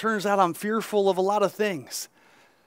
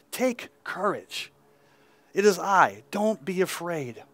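gentle reassurance; 2 semitones lower than usual. Acted. Jesus speaking, read from scripture.

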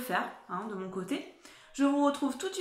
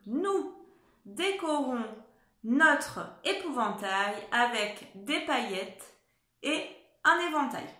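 dictation voice. Shown as a demonstration. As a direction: read it out as a dictation. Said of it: "je commence à vous la dicter".

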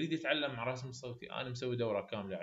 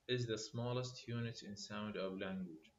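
1 slow dictation; 2 semitones lower, 5 dB quieter, much slower than usual. Shown as a demonstration. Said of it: "definition read slowly".

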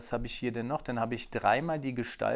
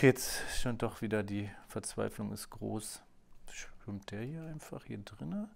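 despairing whisper; 2 semitones lower, 5 dB quieter than usual. Real, not acted. Frustrated while drawing.

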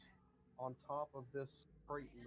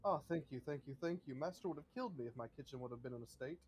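grateful butler; much faster than usual. Acted. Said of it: "He's like".

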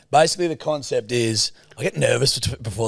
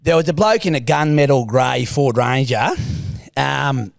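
Stephen's voice. Acted. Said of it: "it's Stephen's voice".

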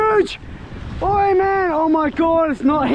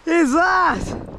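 very high, real squawk of disbelief; astonished; 6 semitones higher, much slower than usual. Real, not acted. Angler baffled by an unexpected catch, astonished. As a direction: shoot the voice up in amazement.

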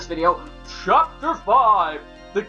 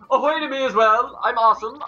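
pompous showman voice; 5 semitones higher, 4 dB louder than usual. Acted. Flavio voiced, first try.

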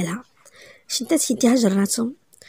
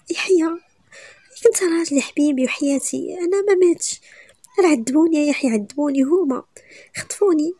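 desperate pleading; 5 semitones higher than usual. Acted. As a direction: beg him to believe her. Returned wife pleads desperately. (توسل يائس بصوت مرتفع)

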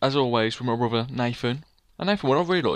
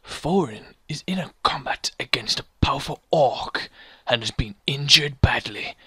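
slow, deliberate game narrator; epic story narration; 2 semitones lower, slower than usual. Acted. Player reading out the quest text, epic narration. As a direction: read it out with grave drama.

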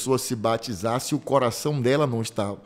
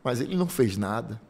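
good thief on the cross. Acted. Preacher voicing the good thief.

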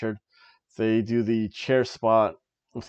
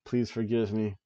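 mock humbled plea; 2 semitones lower, 6 dB quieter than usual. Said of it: "I've been humbled".

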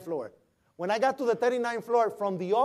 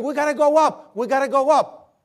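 higher, louder urgent yell; retold scream; 6 semitones higher, 8 dB louder than usual. To the officer in the stairwell, a retold urgent yell. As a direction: push the crew upward with a shout. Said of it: "And I started screaming".

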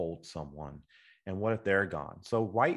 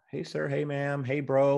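friendly greeting; 6 semitones higher than usual. Shown as a demonstration. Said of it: "You say".

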